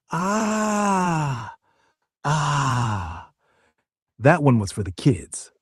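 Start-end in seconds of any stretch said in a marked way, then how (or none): 0.1-3.3 dinosaur voice. Pretend. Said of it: "pterodactyl impression".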